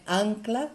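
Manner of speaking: "Ancla" with weight on AN; stress on first syllable. Shown as a demonstration. Teacher showing the strong first syllable, stressed AN in "Ancla". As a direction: lean on the opening AN of "Ancla". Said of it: "A primeira sílaba é a forte".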